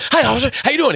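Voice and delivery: high, overly innocent greeting to a cop; nervous driver faking calm for the officer; wide-eyed innocent. Retold or imitated. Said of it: "that wide-eyed kinda".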